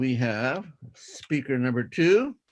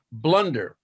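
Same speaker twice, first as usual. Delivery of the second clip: slow school dictation. Shown as a demonstration. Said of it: "I will read it twice".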